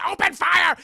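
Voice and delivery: high, full-volume acted command; shouted battle order. Red team spotting Sherman, shouted battle order. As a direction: yell it to the whole squad.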